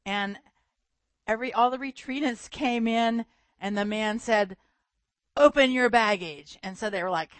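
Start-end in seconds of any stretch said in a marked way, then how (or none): 5.4-6.6 mock German accent. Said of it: "heavy German accent".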